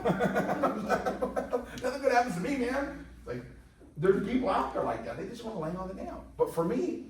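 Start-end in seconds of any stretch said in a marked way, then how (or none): 0.0-3.1 very slow, higher, whiny moaning; wallowing like nothing will ever go right; mock self-pity. The speaker mocks a chronic complainer, slow and whiny.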